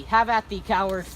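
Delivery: loud fighting challenge; bold swashbuckling bravado. Acted. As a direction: throw down the challenge. Hot-headed Tenderloin attacks.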